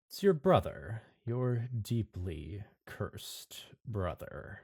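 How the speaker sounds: slow, drawn-out figure from the dark; sinister stranger. Acted. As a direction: let the revelation land slowly.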